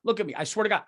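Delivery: high, urgent plea; earnest high-pitched begging; pleading to jury. Pretend. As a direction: make the jury believe you. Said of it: "look at the jury and be like".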